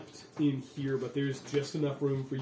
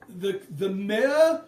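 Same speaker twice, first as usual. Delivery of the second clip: higher, hesitant pretend-polite delivery; familiar woman's voice; 10 semitones higher, 6 dB louder, slower than usual. Disguised woman offers lunch to the gate workers, higher voice. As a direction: feign sweet official politeness. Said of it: "a voice that sounds somewhat familiar".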